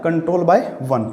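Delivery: very slow, word by word; dictating the meaning slowly; slow dictation. Shown as a demonstration. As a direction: spell it out slowly so students can write it down. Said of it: "teacher dictates definition slowly".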